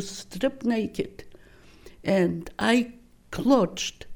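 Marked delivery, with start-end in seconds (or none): 0.0-1.2 breathy whisper, no voice at all; a whisper of the command to undress; whispered order. Retold or imitated. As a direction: hush it like a secret shame. Ordered to strip on arrival.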